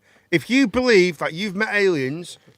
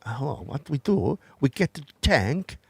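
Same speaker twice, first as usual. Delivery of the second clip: mock Russian accent.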